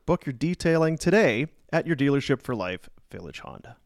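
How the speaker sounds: ad read. Acted. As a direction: sell it like a radio spot. Reads a sponsor ad.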